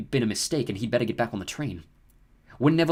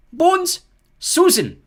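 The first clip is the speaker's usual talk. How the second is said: loud, high name call; 10 dB louder, much slower than usual. Acted. McGonagall calls a pupil forward, loud and high. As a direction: call the name across the hall. Reading names to the hall.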